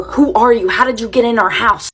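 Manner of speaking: a mild mock yell at the intruder. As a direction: parents yelling at their own daughter, mildly voiced. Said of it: "They start yelling at her".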